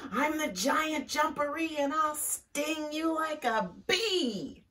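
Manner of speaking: high, put-on boastful voice; hidden creature's voice. Hidden creature threatening Bear, high showy boast. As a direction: taunt in a big high pretend-monster voice. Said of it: "he heard a voice".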